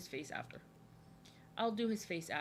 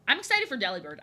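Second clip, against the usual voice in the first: raised, eager burst; excited; 7 dB louder, faster than usual. Real, not acted. Streamer about to draw Delibird for a viewer, excited. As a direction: say it louder, with keen anticipation. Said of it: "I'm very, very excited for Delibird".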